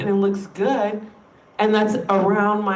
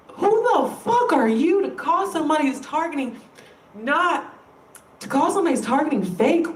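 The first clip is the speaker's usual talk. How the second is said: real, higher-pitched outrage; indignant; 4 semitones higher than usual. Real, not acted. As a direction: challenge them, pitch jumping up. Indignant rant at fake-callers.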